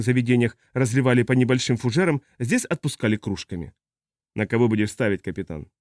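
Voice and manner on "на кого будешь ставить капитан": put-on drunk spacer. Tipsy spacer ribs the captain over bets, low and joking. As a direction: tease with lazy, lowered menace.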